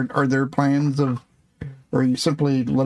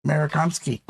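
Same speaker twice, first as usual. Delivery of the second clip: put-on Russian accent; faster than usual. Player repeats the answer in a put-on Russian accent.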